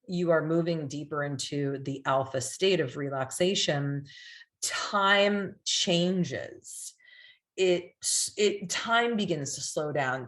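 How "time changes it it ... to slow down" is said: slow hypnotic delivery. Shown as a demonstration. Demonstrating slowed hypnotic delivery.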